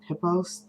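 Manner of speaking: "Pippos" said in the speaker's own version; own pronunciation. Shown as a demonstration. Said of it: "That's what I call it".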